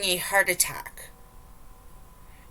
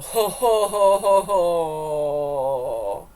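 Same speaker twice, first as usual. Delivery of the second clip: laughing; 3 semitones lower, 6 dB louder, much slower than usual. Real, not acted. Laughing at the clip.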